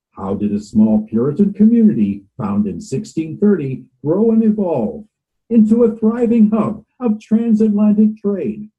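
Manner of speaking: documentary read in a Boston accent; light Boston accent on a promo read. Shown as a demonstration. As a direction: narrate the city's history with a Boston accent. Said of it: "this is the Boston accent".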